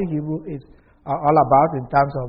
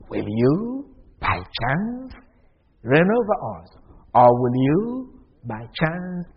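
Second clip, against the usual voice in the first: mocking doubt. Shown as a demonstration. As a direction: ask it as if it could never be. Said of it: "the tone of their voice".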